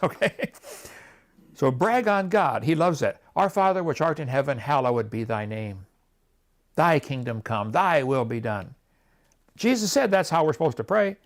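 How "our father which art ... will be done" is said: reverent prayer. Pretend. Reciting the Lord's Prayer.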